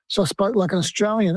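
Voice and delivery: lightly put-on Australian accent. Shown as a demonstration. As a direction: slip into an Australian bloke's accent. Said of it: "I started to speak like an Australian bloke".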